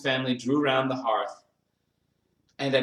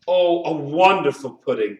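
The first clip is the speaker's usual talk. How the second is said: loud, higher burst of admiration; admiring exclamation; 4 semitones higher, 8 dB louder than usual. A narrator's reading. Bob praises his wife's pudding, admiring exclamation. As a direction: exclaim over it with wonder. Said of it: "and calmly".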